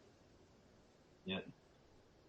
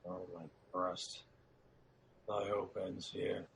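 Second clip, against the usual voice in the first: broken lament; 3 semitones lower, 8 dB quieter than usual. Acted. Macduff despairing, quiet.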